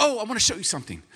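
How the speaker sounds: quick, high excited wife imitation; super excited wife. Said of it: "she gets super excited".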